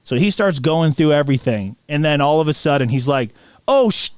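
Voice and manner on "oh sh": high, excited fanboy outburst; giddy, raised-pitch amazement; starstruck fan. Retold or imitated. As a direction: imitate a guard geeking out over a find. Guard thrilled by the toys, retold.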